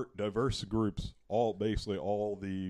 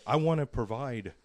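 higher-pitched mocking imitation of a candidate; mock politician quote; 5 semitones higher, 4 dB louder than usual. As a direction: lightly parody a campaign promise. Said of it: "He says that".

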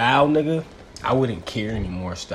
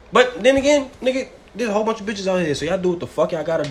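mischievous; 9 semitones higher, 4 dB louder, faster than usual. Acted. Joking reversal of advice.

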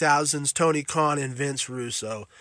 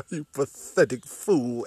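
slow, low, drawn-out villain announcer; mock announcer, slow and low; game-over announcer; 3 semitones lower, 4 dB quieter than usual. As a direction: intone it like a gloating arcade voice. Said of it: "that guy standing there going".

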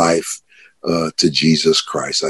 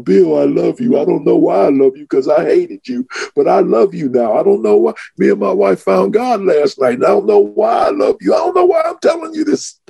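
joyful shouting; 12 semitones higher than usual. Retold or imitated. Running up to his supervisor Bill.

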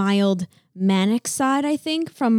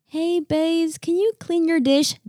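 higher, light nagging ask; a raised, breezy reminder; repeated ask; 6 semitones higher than usual. Retold or imitated. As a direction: toss off a casual upbeat request. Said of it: "all the times of saying".

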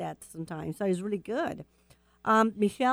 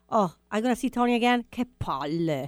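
fed up. Shown as a demonstration. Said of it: "you can use it like this. Example".

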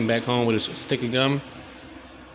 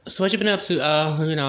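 high gossip voice; 5 semitones higher than usual. Retold or imitated. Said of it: "Dog's over there".

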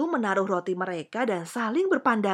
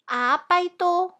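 high, loud, alarmed question; frightened child; 10 semitones higher, 5 dB louder than usual. A narrator's reading. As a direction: ask it like a scared little princess. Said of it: "Putri Kecil ketakutan".

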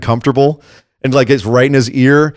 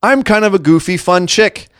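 slightly higher, hint of a goofy fun gal; lightly voiced goofy chick; 7 semitones higher than usual. Co-host mocking a wrestler's silly new persona, lightly put-on goofy voice.

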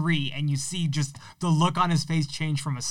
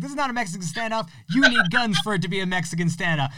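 excited quote; 4 semitones higher, faster than usual. Retold or imitated. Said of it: "It's like".

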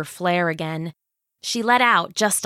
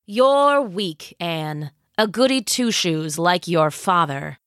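scheming villain queen. Acted. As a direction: savor every word like a tyrant. Villain scorns daughter.

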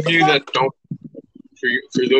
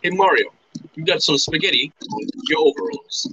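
a light put-on Luigi, a bit higher; 4 semitones higher than usual. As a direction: tease Mario like a cartoon plumber.

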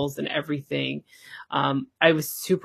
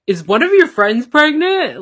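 voicing husband; 9 semitones higher, 10 dB louder than usual. Husband's confused question voiced.

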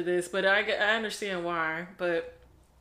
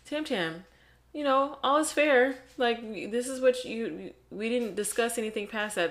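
pitched up, insisting all is fair; hammed-up protest; mock indignant protest; 4 semitones higher than usual. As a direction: argue like he's been wronged. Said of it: "And he's like".

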